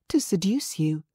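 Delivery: whispered "To seduce you", breathy and half asleep; sleepy unvoiced murmur; drowsy murmur. A narrator's reading. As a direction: breathe it out as she dozes off. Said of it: "as she murmured".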